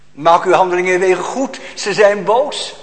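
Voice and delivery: loud, high accusing proclamation; preacher thunders the verdict at the congregation; fierce preaching. Acted. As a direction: hammer the charge home. Preacher repeats the prophet's call.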